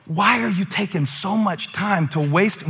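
ordinary talk

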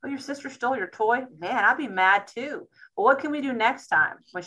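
parent revisiting the tantrum calmly; gentle parent check-in. Retold or imitated. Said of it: "be like".

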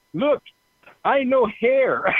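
slow, insistent mock Korean accent; drawn-out, proud barber in a mild Korean accent; Korean lady. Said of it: "one of them would go".

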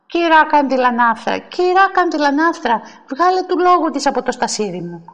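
repeated summons climbing in pitch; indignant calling out. Acted. Woman summoning the sexton to evict her rival, indignant calling. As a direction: call for help, outraged.

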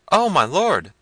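high, loud helpless wail; frightened servants. A narrator's reading. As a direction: answer your master high and flustered. Jaquez, frightened.

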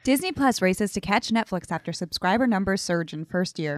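crisp headline read like a news anchor; newscaster voice. Shown as a demonstration. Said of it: "That was a great newscaster voice".

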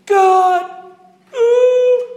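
loud high cry of God and ooh; shouting out. Retold or imitated. Worshipper shouting out during the preaching, loud and high. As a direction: call it out in ecstatic praise. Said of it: "they'd just shout".

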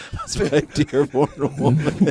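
laughing. Real, not acted. Repeats it while laughing.

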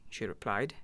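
usual speaking voice

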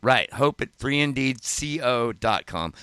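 lisping without front teeth; words slurred through missing teeth. Real, not acted. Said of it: "I can't say that without teeth".

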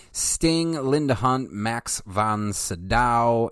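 reading aloud like an encyclopedia entry; steady, measured reading voice; methodical reading voice. Shown as a demonstration. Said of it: "in my melodical, methodical voice".

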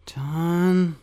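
high, loud terrified call; scared cry to a friend; frightened. A narrator's reading. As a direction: draw the name out in rising panic. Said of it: "stammered Rat".

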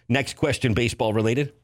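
lightly voiced vintage radio announcer; a hint of an old-time broadcaster; old-timey radio voice. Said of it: "why did I just go with an old-timey voice".

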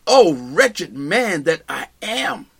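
slow, drawn-out cry of despair; a preacher voicing Paul's despairing groan; anguished lament. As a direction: let each word sag under the weight of sin. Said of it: "if he were speaking and we heard him say these words".

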